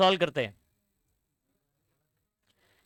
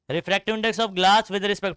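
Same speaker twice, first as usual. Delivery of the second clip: slow, spaced-out reading of the formula; slow dictation; much slower than usual. Shown as a demonstration. Teacher shows students how to write it, reading slowly. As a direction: spell the formula out slowly for the class. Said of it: "लिखने का तरीका सुनो".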